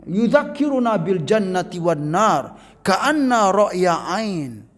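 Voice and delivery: slow, intoned Arabic hadith recitation. Acted. Preacher reciting the hadith to the congregation, slow and intoned. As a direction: chant the hadith text slowly and solemnly.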